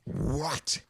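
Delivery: high, stunned squeak; shocked Discord. Acted. Discord, stunned by the ten-letter limit, squeaks in disbelief. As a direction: disbelief at the tiny form.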